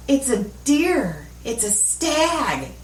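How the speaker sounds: slow, drawn-out mock awe; retold wonder. Friend on mushrooms reports her vision, slow mock wonder. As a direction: imitate a tripping friend, stretching each phrase.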